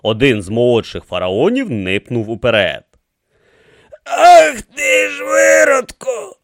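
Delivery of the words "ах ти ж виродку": high, slow, loud creaky curse; creaking outrage. A narrator's reading. Young pharaoh rounds on the high priest, creaking angrily. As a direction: creak it out as an ancient angry mummy. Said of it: "проскрипів він".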